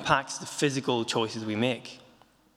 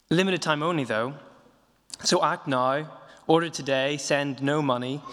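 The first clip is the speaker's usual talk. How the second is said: upbeat sales-pitch list; poem reading. Shown as a demonstration. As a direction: read each item like an advert. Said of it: "reading a poem by the comedian George Carlin".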